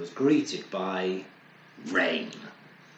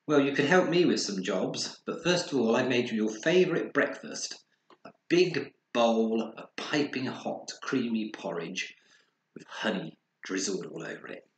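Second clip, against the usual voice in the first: mum's voice; 2 semitones higher than usual. Acted. Mum voiced in story.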